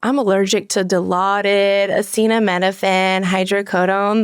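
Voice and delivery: lightly voiced patient listing allergies; drug-seeking patient. Nurse mimicking a patient's allergy list, lightly put-on patient voice.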